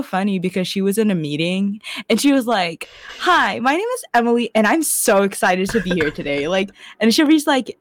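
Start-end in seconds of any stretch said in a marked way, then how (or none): 3.2-6.5 peppy mock self-introduction with swooping pitch; Emily, over-projected greeting. Imitating the show's heroine in a meeting, over-projected greeting. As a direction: imitate an over-eager presenter. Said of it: "Why are you yelling".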